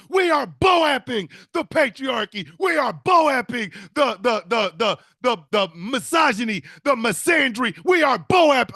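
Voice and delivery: hammed-up marcher yelling, drawn out; mock protest shout. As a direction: yell it like a rally leader. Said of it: "women out there talking about".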